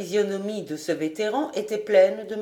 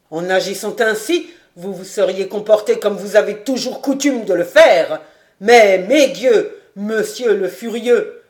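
loud, slowed, emphatic rebuke; energetic; 8 dB louder than usual. A narrator's reading. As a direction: hammer each word. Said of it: "ajouta-t-il avec énergie". (avec énergie, le maréchal défie le baron)

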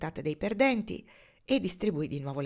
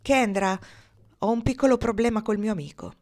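loud, higher-pitched announcement; announcing; 5 semitones higher, 7 dB louder than usual. A narrator's reading. Marnie announcing a man problem to Kendra, declarative. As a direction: announce it boldly, voice lifted. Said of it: "Marnie annunciò".

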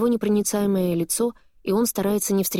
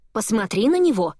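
higher, louder insistent exclamation; exclaiming; 4 semitones higher, 4 dB louder than usual. Acted. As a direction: exclaim it, pushing him to look. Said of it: "восклицает Диметра".

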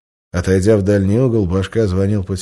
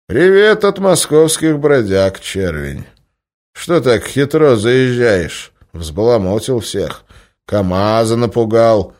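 put-on old boss voice; 3 semitones higher, 5 dB louder than usual. Old boss lectures the stranger.

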